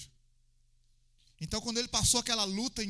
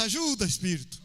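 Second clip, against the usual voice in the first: acted plea; 5 dB louder than usual. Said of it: "grita lá".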